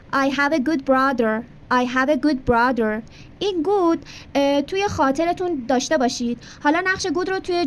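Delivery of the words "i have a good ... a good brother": slow teacher demo of the sentence; slow model sentence. Shown as a demonstration. Teacher modelling English for Persian students, slow. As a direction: say it slowly for repetition. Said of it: "من یه برادر خوب دارم".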